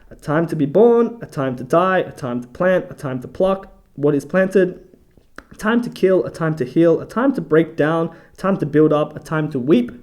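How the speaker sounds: measured list, phrase by phrase; scripture reading. Acted. Host reading out the verse on seasons, measured scripture reading. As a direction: read each pairing as a separate beat.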